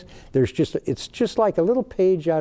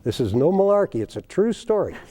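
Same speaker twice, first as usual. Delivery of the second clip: fast, higher, earnest appeal to the listeners; higher, quick insistence that it's true; insistent appeal; 4 semitones higher than usual. Real, not acted. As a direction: swear to them it's true. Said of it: "addresses listeners directly".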